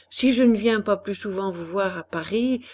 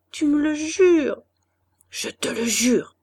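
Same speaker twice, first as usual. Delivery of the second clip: breathy whispered vow, no voice; whispered oath; 5 semitones higher, 4 dB louder than usual. Acted. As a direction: whisper the oath close to her ear. Lovers swear an oath softly.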